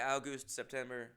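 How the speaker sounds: August said OW-gust among the months; OW-gust in a list. Shown as a demonstration. Listing months to show OW-gust August. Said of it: "we should all just say it".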